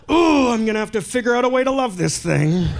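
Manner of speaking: put-on a child forcing himself to accept his dad; mock child.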